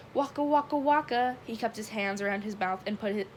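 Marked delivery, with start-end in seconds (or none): 0.1-1.4 raised, playful comic catchphrase; exuberant. A narrator's reading. Richie celebrates on the bench with his friends, exuberant. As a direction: toss it out like a clowning comedian.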